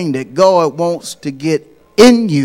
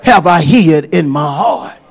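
emphatic quote of David; 7 dB louder than usual. Retold or imitated. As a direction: proclaim David's words to God. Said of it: "he told God".

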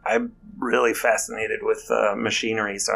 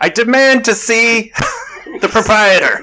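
unearthly voice; 12 semitones higher, 10 dB louder than usual. Acted. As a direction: demand it like a haunting spirit. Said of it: "an echoing voice come down".

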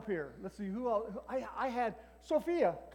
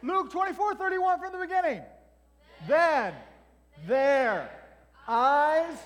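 loud high call, each word apart; leading recitation; 7 semitones higher, 10 dB louder, slower than usual. Shown as a demonstration. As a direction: lead the group word by word.

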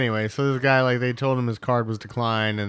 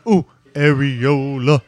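mock cooing; 8 dB louder, slower than usual.

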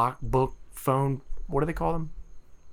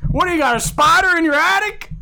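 put-on very old man; 13 semitones higher, 7 dB louder than usual. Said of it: "Say it that way".

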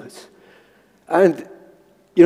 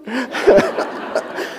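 laughing; 7 semitones higher, 4 dB quieter than usual. Real, not acted. Laughs at own impression.

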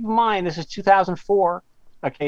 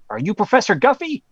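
Southern caller, raised questioning pitch; heavy Southern accent; 6 semitones higher, 3 dB louder than usual. Retold or imitated. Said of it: "this heavy, like, Southern accent".

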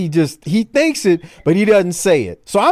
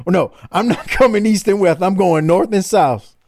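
wrestling promo; 3 semitones higher than usual. Retold or imitated. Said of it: "let's go to Flair now".

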